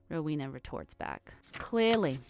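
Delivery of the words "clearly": biting retort. Acted. Rowena retorts sharply at Godric.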